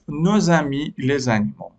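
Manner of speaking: "nos amis les animaux" read very slowly and clearly; slow model reading. Shown as a demonstration. Teacher reads "nos amis les animaux" to the pupils, slowly. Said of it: "teacher reads the exercise item".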